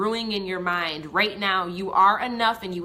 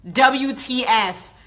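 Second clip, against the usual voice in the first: loud, frantic venting to a friend; half-laughing panic, louder; freaked-out rant; 6 dB louder than usual. Retold or imitated. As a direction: blurt it out like you're losing your mind. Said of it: "call it Jordan and be like".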